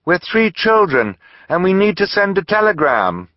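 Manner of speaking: put-on a girl calling out clearly; young girl voice. A narrator's reading. Violet calling to the shopkeeper, high girl's voice.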